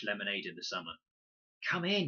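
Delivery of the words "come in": called out across the water; a bright shout to the others; calling out. A narrator's reading. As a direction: call them into the river. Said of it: "he called".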